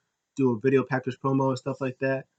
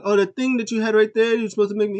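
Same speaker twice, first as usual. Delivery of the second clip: much higher, louder whiny voice; squeaky complaint; 9 semitones higher, 5 dB louder, faster than usual. Retold or imitated. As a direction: whine it up high. Drake complaining to Killian.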